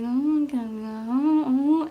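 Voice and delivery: wordless imitation of drawn-out North Korean speech; dragged-out North Korean intonation. Vlogger mimicking drama characters she loves, dragged-out North Korean accent. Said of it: "they drag everything".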